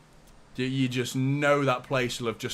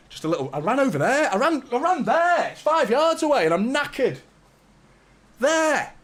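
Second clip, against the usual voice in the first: mock puffing; 10 semitones higher, 4 dB louder than usual. Mimicking being out of breath.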